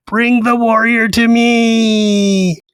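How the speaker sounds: high, shrill screech, "me" stretched long. Narrating a scene, voicing an unseen figure screeching to the camp, high-pitched, shrill screech. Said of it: "high-pitched, shrill voice screech".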